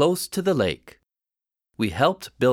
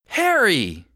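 relieved call; 5 semitones higher than usual. Acted. Mom finds lost boy.

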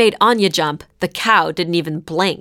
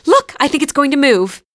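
high, loud eager call; excited; 8 semitones higher, 4 dB louder than usual. A narrator's reading. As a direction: point it out, bursting with hope. Anya thrilled the cow stirs.

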